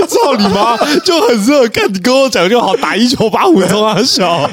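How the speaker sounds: high, loud cursing through laughter; mock furious rant. Host voices the officer's fury at the recruit, laughing mock rage.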